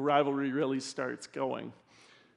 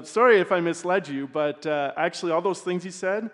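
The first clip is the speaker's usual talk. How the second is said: stifled laughter breaking through; fighting back a laugh; trying not to laugh. Acted. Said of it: "I'm trying not to laugh".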